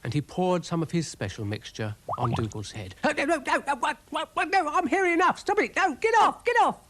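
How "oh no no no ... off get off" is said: high, loud panicked squealing; frantic protest. Acted. Dougal panics under the mixture.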